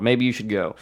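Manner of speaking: mild, tentative suggestion; suggestive. Retold or imitated. Host hinting to a comic to leave, suggestively. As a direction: offer it as a gentle hint. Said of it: "I was saying it suggestively before".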